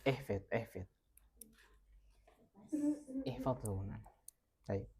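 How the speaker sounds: whispered, urgent ihfid ihfid. Real, not acted. Teacher whispering to the students to memorize it. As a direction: breathe the words with no voice.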